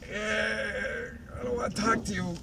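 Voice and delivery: Fluttershy shyly refusing Twilight, high and soft; mumbled shy brush-off. Retold or imitated. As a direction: shrink away like a painfully shy pony.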